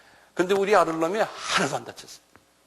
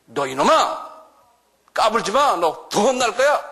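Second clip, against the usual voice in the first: building scolding, ending higher and slower; rebuke; 6 semitones higher, slower than usual. Acted. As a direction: scold the devil, rising. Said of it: "rebuke 한다 그래요".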